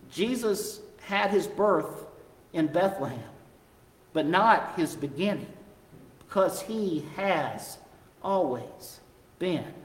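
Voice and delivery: hushed refrain. Acted. Repeated refrain said softly.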